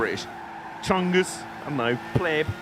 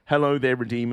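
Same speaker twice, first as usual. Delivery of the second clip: Ewan McGregor impression; 3 semitones lower than usual. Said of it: "I horribly imitate a British accent to Ewan McGregor".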